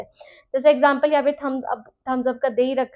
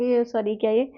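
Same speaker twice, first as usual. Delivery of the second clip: ordinary talk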